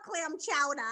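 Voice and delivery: soft Boston "chowder", dropping the final R; Boston accent. Shown as a demonstration. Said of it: "They want you to say clam chowder".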